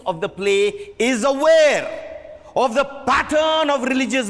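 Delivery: emphatic lecturing voice; impassioned director. Acted. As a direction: preach the play's meaning to the cast. Director lecturing cast passionately.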